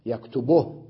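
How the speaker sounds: يكتبه as yaktubuh; u on the ب of يكتبه, silent ending; pause with vowel transfer. Shown as a demonstration. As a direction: end يكتبه on a bare ه. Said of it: "من أين الضمة على الباء".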